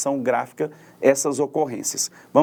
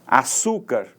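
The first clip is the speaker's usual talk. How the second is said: açúcar with the force on ÇÚ; stress on middle syllable; 2 semitones lower, slower than usual. Shown as a demonstration. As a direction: lean on the second syllable of açúcar. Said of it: "com maior intensidade, com mais força". (açúcar com força na penúltima sílaba, ÇÚ)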